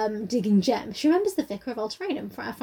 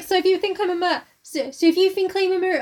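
put-on cockney accent; 6 semitones higher than usual. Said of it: "cockney swang".

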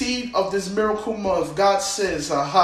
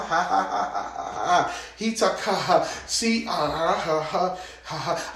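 holy laughter; 2 semitones lower than usual. Real, not acted. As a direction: laugh in the spirit, then let it die down. Holy laughter during prayer.

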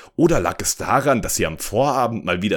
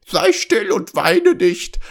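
high, loud, slow frog voice; repulsive frog; 10 semitones higher, 6 dB louder, slower than usual. A narrator's reading. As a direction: hush her in a drawn-out creature voice. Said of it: "antwortete der abartige Frosch". (abartiger Frosch, hoch und gedehnt)

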